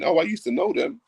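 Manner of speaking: high mocking accuser whine. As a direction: parody a woman making a claim. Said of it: "someone coming ... saying".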